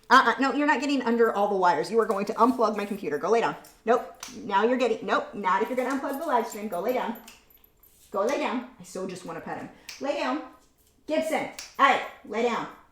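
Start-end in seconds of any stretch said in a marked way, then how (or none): 11.8-12.6 firm, no-nonsense, stern parent voice. Telling the dog to lay down during a live stream: mom voice. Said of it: "mom voice means you have to do it".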